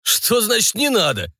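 high, outraged pirate; indignant ghost pirate. A narrator's reading. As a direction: protest hotly. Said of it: "возмутился Бен".

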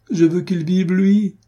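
high, loud, pleading outburst; desperate cry. A narrator's reading. Adrienne to Diane about Armand, a high loud desperate cry. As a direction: fling it out in despair.

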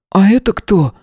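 put-on high child voice with a challenging edge; a small boy demanding answers; demanding kid. A narrator's reading. Little boy challenging a stranger in the corridor, demanding. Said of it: "с претензией спросил тот".

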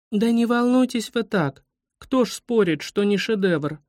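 high-voiced little girl calming someone; kind soothing. A narrator's reading. Kind schoolgirl calms the upset guide, soothing. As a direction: soothe gently as a kind child. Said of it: "успокоила экскурсовода добрая Таня Смирнова".

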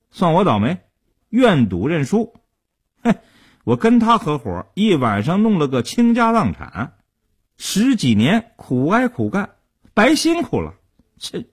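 high-pitched, aggrieved moaning about bad luck; bitter complaining. A narrator's reading. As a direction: grumble it out high and sore, like a loser venting. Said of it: "边写欠条是边诉苦".

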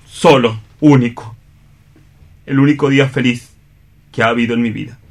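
a proud, hurt man giving up his love; stage-drama Juan, grief held under pride; anguished rival in a radio play; Juan, bitter and wounded. Acted. Juan confronts Fernando and Chole.

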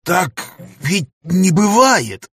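high, slow, stunned cry of disbelief; can't accept what he's just heard; shocked disbelief. A narrator's reading. Professor to his weeping friend, stunned high disbelief.

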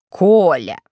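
loud dramatic cry of a name; tragic exclamation. A narrator's reading. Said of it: "воскликнула она трагическим голосом".

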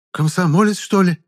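high startled gasp of a peasant woman; a stunned cry, pitched high; gasping in surprise. Acted. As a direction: gasp it out, caught off guard. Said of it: "охнула женщина".

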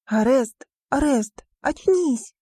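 high, urgent cries to wake him; frantic wake-up call. Acted. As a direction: shake him awake with your voice. Riona shakes friend awake.

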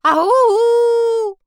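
very high, loud drawn-out howl; loud wolf howl; werewolf howl. A narrator's reading. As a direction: howl at the moon along with the bard. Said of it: "поддержал вокал барда оборотень".

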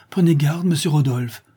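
put-on frightened girl crying out; alarmed cry. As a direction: call out to warn him of danger. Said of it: "s'écria Fleur de Marie".

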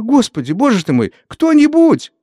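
high, loud call for help; frantic shout. A narrator's reading. Tasya calling the neighbours, shouting high and loud. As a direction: scream for anyone to come. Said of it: "Никогда Тасечка так ещё не кричала".

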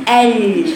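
ال with the tongue curled for the L; faulty curled-tongue L in ال; mispronounced lam. Shown as a demonstration. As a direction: curl the tongue on the L of ال. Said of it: "وهي مش فاهمة مخرجها".

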